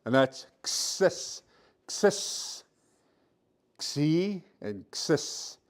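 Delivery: "Xis" slowly, with a breathy throat X; drawn-out "Xis" for the class; Blackfoot X blend. Shown as a demonstration. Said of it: "it has another blend like this".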